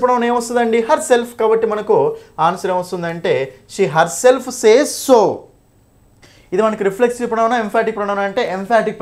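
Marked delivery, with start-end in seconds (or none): 3.7-5.2 slow, drawn-out model answer; slow dictation. Shown as a demonstration. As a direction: read the answer out word by word. Reading out the completed answer. (జవాబును నెమ్మదిగా సాగదీసి చదవడం)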